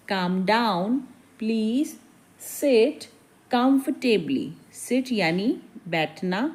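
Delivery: hushed, gentle teaching; soft lesson voice. Real, not acted. Teacher quietly models English lines for learners, soft and calm. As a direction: speak softly, close to the mic.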